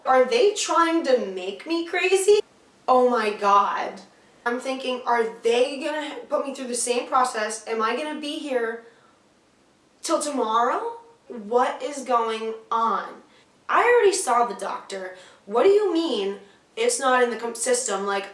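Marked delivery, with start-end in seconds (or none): 0.1-4.0 loud, high and drawn-out panic; freaking out. Retold or imitated. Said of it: "I'm freaking the fuck out". 5.0-18.0 retold panicky disbelief, emphatic; freaking out. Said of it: "I'm freaking the fuck out".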